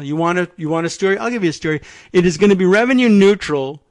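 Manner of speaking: loud, pushy boasting; a hammed-up blowhard president talking down a reporter; blustering Trump. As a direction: brag it at them, puffed up and fast. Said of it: "acted Trump boast".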